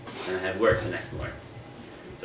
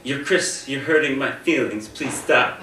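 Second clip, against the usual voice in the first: Siri voice; 4 semitones higher, 3 dB louder, slower than usual. Retold or imitated. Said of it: "she would say in Siri voice".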